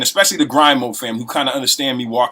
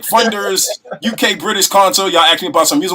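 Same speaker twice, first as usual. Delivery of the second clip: polite business voice, a touch higher; customer service voice; 5 semitones higher than usual. Retold or imitated. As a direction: put on a polished networking voice. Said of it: "I went into my Peter bag early".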